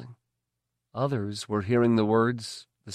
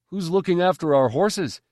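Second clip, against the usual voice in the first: worried stable hand; 7 semitones higher, 4 dB louder than usual. A narrator's reading.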